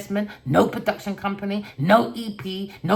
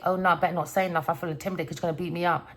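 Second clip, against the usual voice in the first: mock timid voice; 4 dB quieter, faster than usual. Mock voice of intimidated person.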